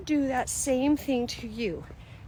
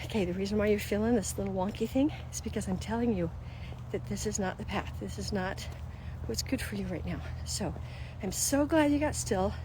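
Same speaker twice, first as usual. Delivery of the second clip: God gently warning; 6 dB quieter than usual. Retold or imitated. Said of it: "he can say".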